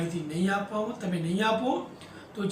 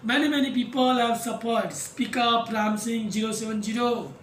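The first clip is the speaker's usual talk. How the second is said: "Many, many people have suffered" slow, each word leaned on; stress on each word. A narrator's reading. Counsel questioning the robot, stressing each word of "Many, many people have suffered". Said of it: "stressed each word".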